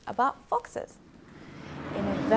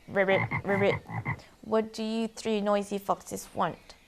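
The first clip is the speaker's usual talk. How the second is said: lightly voiced frog. Frog asking the foxes what they want, lightly voiced. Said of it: "the frog asked".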